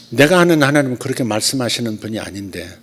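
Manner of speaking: ordinary talk, nothing marked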